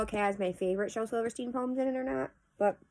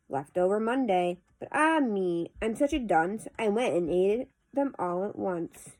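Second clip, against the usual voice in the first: measured, lilting poem reading; poetry recitation. Acted. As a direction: read the verse aloud with pauses at each phrase. Reads a poem aloud.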